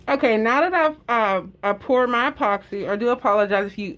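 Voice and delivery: talking through a face mask; muffled by mask. Real, not acted. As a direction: speak muffled behind a mask. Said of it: "if I'm sound muffled, I do have my mask on".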